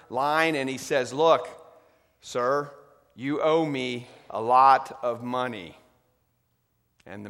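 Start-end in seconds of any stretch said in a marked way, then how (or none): 1.1-5.7 stern king. Acted. King confronts debtor over ledger.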